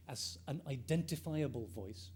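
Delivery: identifiable given the main weight of the line; stress on identifiable. Shown as a demonstration. Lecturer marking a key term for students, stressing identifiable. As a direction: lean on the word identifiable and let the rest stay level. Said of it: "I stress the word identifiable here".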